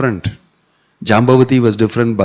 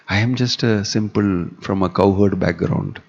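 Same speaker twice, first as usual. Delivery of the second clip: softer, slow self-deprecation; slanting, teasing provocation; 2 semitones lower, 5 dB quieter, slower than usual. Acted. Krishna provoking his wife by belittling himself, softly self-deprecating. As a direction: quietly play the humble simple man. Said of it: "slantingly try to".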